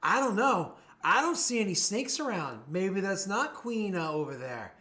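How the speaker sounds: loud, high, mocking singsong taunt; jeering. Thug taunts Rena from behind about snakes, jeering. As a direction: toy with her, drawing out the end. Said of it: "almost jeeringly and says".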